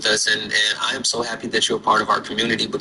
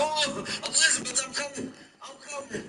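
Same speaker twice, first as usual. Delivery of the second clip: witch voice; 13 semitones higher, 10 dB quieter than usual. Pretend. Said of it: "You sound just like the witch".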